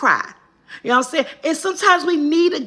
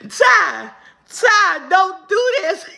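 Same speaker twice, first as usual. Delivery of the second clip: higher, laughing through the words; laughing protest; 6 semitones higher, 3 dB louder, much slower than usual. Real, not acted. Reacting to viewer's joke.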